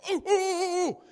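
high, loud eager hand-raising cries; eager blurting. Retold or imitated. Speaker as the eager guy with the answer, high loud. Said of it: "I would be the guy go".

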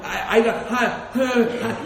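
slow, stunned stammer breaking into nervous laughs; mock stammering. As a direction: stammer like a man knocked flat by the news. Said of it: "He's mumbling, stuttering".

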